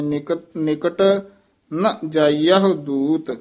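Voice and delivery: ਨਿਕਟ set apart, then slow ਨ ਜਾਈਹੁ ਦੂਤ; pause after ਨਿਕਟ. Shown as a demonstration. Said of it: "ਇੱਥੇ ਯਮਕ ਲਾ ਦੇਣੀ ਹੈ".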